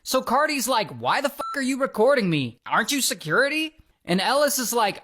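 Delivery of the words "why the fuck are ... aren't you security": higher, indignant mock demand; retold pissed-off challenge. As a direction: imitate someone annoyed at being filmed. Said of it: "she gets super pissed".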